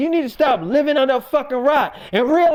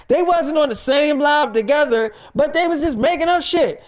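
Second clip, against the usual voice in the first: raised, heated rant voice; indignant shout; 2 semitones higher than usual. Real, not acted. To the audience about co-stars lying, indignant shout. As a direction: shout your outrage.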